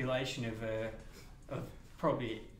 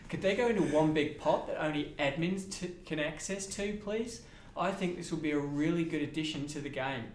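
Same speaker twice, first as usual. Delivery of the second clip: put-on Australian accent; 2 semitones higher, 3 dB louder than usual. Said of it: "You've gone full Australian".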